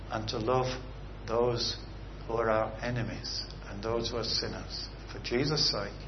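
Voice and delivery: pastor praying aloud for the congregation, earnest and pleading; earnest prayer. Acted. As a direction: pray it like a shepherd leading his flock.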